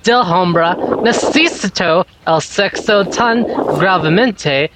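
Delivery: Spanish read with a very bad accent; terrible Spanish accent. Real, not acted. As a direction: stumble through Spanish in a poor accent. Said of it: "that's the worst Spanish accent".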